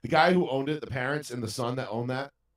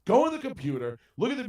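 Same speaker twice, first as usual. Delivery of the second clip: retold angry order; 8 semitones higher, 3 dB louder than usual. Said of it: "went absolutely fucking ballistic on this kid".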